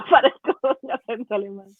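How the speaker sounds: entre risas, bromeando de sí misma; ríete mientras lo dices; riendo. Real, not acted. Se ríe de su acento. (riendo sobre su propio acento alemán)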